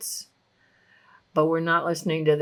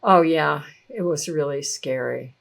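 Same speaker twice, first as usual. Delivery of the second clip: relieved admission; 4 semitones lower than usual. Retold or imitated. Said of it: "the person might relax a little and go".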